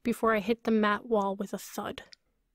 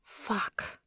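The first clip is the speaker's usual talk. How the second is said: whispered under breath, soft; muttered whisper; 9 dB quieter than usual. A narrator's reading. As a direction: mutter it to nobody. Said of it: "I mutter to the empty air".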